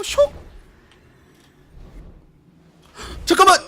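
high, loud panicked yelp; alarmed shout. Real, not acted. Sliding fast, alarmed.

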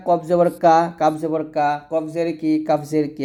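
both "কা" and both "কি" said with the same thin k; mistaken identical k. Shown as a demonstration. Teacher imitating how students confuse two letters, mistaken identical k. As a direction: recite "কফ জবর কা, কাফ জবর কা" with no difference between the letters. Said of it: "এরকম উচ্চারণ করি".

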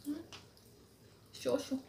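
talking while eating; chewing. Real, not acted. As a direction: mouth full of noodles. Seen 0: Ate noodles at -4s; closed, working lips through the words.

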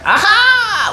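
sudden high exclamation of discovery; a bright jump up in pitch, caught by surprise; surprised aha. Real, not acted. Tarot reader noticing the kings face each other, exclaiming high.

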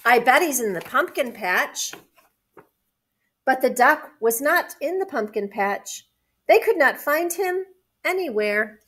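measured picture-book reading; story narration. A narrator's reading. Adult reading a picture book to children, story narration. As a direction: read it clearly to young children.

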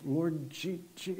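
stuck on the G of "G-"; imitated blocked speech. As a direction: imitate failing to get "G-" out, repeating it. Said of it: "she couldn't say Jesus".

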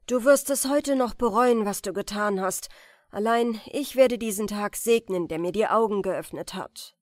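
loud, bitter threat; bitter warning. Acted. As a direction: warn her with bitter force, loud. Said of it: "rief Anton". (bitter drohend, laut)

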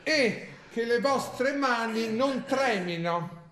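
slow, grave ritual reading; slow, solemn reading of a spell manual; solemn instruction reading. Acted. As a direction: read each step like a sacred rite. Reads a ritual manual aloud.

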